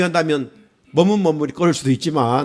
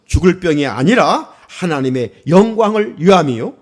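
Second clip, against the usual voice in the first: scripture reading; 4 dB louder than usual. Acted. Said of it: "요한복음 십 장 사 절입니다".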